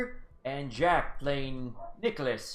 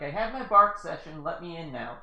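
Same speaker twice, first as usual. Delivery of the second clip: higher, louder imitated dog; 3 semitones higher, 5 dB louder than usual. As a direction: voice the dog's demands.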